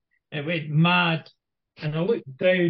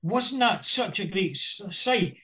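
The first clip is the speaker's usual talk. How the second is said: higher, gushing Welsh woman; mock-gushing stranger, pitched up; lightly voiced Welsh woman gushing; 5 semitones higher than usual. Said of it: "this Welsh woman came up and said".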